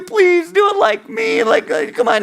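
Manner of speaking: high-pitched wheedling beg; pleading. Acted. Other judges trying to win you over, pleading. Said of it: "they can plead with you".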